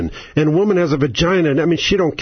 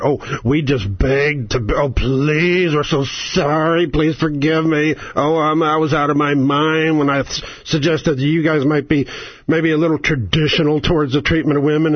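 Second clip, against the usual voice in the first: mock groveling apology. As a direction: beg like a spineless politician. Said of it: "when we call them Taliban".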